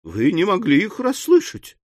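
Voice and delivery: high, coy lady's voice; maidenly embarrassment; bashful. A narrator's reading. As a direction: say it shyly, voice climbing. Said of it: "стыдливо сказала она".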